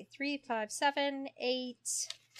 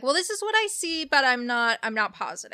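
hedging caveat; 3 semitones higher than usual. Retold or imitated. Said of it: "deliver this with a little bit of a caveat".

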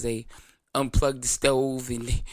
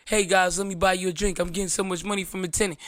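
higher, bright mock-excited vlogger voice; hammed-up party invite, pitched up; mock cheerful bragging; 4 semitones higher than usual. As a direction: spoof a gleeful landlord video. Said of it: "Did you make a video saying".

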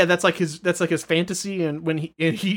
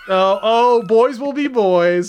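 mock doting wife; 3 semitones higher, 4 dB louder than usual. Wife voice, amused.

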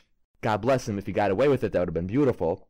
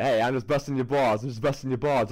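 Brooklyn humor; faster than usual. Acted. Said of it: "A little Brooklyn humor".

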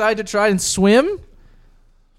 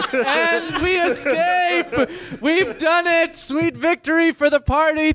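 excited; 9 semitones higher, slower than usual. Real, not acted. Triumphant ending with laughter.

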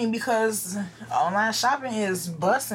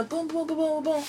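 soft, higher-pitched knock noises; spoken booms for a door knock; quick mimed knocking sound; imitated knocking; 5 semitones higher, 5 dB quieter than usual.

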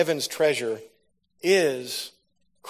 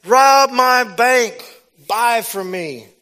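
very slow, loud, higher divine command; voice of the Lord; 9 semitones higher, 8 dB louder, much slower than usual. Retold or imitated. Preacher voicing God's command, slow and booming. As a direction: command it slowly like God himself. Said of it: "He said".

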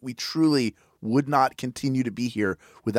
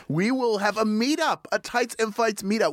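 excited announcement; 8 semitones higher than usual. Real, not acted. Announcing final goal excitedly.

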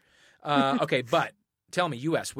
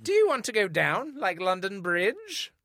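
slow, cheeky Cockney music-hall lilt; saucy old-timey accent; 6 semitones higher than usual. Pretend. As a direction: tease it like an Edwardian music-hall star. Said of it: "No, with the accent".

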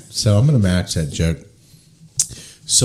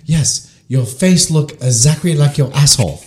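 higher mock-Asian doctor voice; bad Asian accent; 5 semitones higher, 4 dB louder than usual. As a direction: deliver the punchline in a fake Asian accent. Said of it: "sorry for my worst Asian accent".

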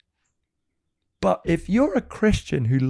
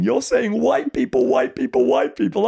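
quoting the ladies; 8 semitones higher, 4 dB louder than usual. Retold or imitated. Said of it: "these black African ladies are saying".

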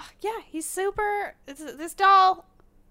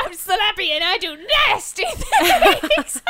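high, slow creepy puppet voice; creepy dummy voice; 6 semitones higher, 6 dB louder than usual. Pretend. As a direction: play the creepy dummy slowly. Voicing Slappy the dummy.

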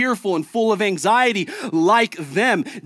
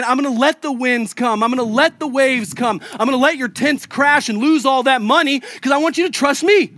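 voice of Jesus; 6 semitones higher, 4 dB louder than usual. Retold or imitated. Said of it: "What if he's saying".

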